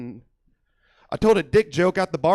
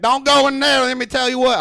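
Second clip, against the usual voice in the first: loud, high redneck warning; redneck relative; 6 semitones higher, 7 dB louder than usual. Retold or imitated. Comic to crowd, mimicking a redneck relative's high, loud warning. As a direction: holler it like a hick uncle guarding the outhouse.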